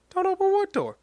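mock bewilderment; confused surprise. Eddie puzzled by the voice, pitched high. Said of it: "he was like".

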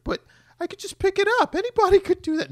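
put-on very high pleading kid voice; a small boy begging his father; child Clark. Little Clark pleads with dad.

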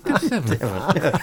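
slow, laughing through words; chuckling it out slowly. Retold or imitated. Repeats joke, laughing.

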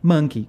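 Monkey said clearly as MUN-kee, stress on the first syllable; Monkey spoken slowly and clearly as a pronunciation model; teaching monkey. Shown as a demonstration. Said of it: "É difícil falar monkey?".

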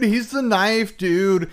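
slow, drawn-out mock hype voice; mock announcer. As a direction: savor each word like a promo. Announcing Knife Dude.

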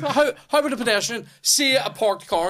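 high-pitched retold disbelief; cracking up. Pedestrian disputing the parked car claim, cracking up. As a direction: argue it high and incredulous. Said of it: "That's why I'm cracking up".

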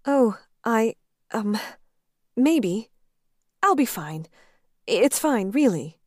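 a hint of a nervous office worker; Dana, flustered. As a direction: stammer out a shy brush-off. Dana's voice in the romance.

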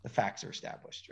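scripture quote. Retold or imitated. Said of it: "the Bible says".

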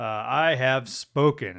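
slow, loud, weighty I have spoken; firm declaration. Shown as a demonstration. Preacher voicing God's firm decree, slow and weighty. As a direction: lay down the word with authority. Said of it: "very direct and powerful statement".

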